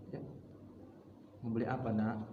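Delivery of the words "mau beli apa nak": put-on a touch softer, tender question to a child; mildly soft "Mau beli apa, nak?"; gentle. Shown as a demonstration. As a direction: ask it softly like a loving parent. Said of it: "Pasti lembut kita jawabnya".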